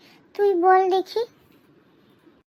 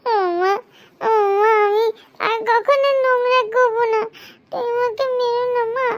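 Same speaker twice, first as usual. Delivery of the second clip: mock crying plea. Boy begging mother not to hit.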